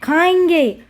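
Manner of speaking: "खाएंगे" with the middle vowel through the nose; "खाएंगे" with open mouth and nasal middle; chandrabindu nasalisation. Shown as a demonstration. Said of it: "इसीलिए इसका उच्चारण हम करेंगे".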